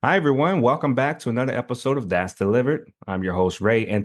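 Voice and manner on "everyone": ordinary talk, nothing marked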